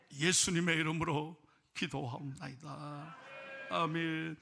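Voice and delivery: earnest steady pastoral prayer; solemn prayer voice; closing prayer. Real, not acted. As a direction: pray it over the nation.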